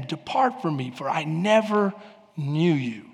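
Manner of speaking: a judge's quiet final verdict; stern rejection. Acted. Jesus rejecting false followers.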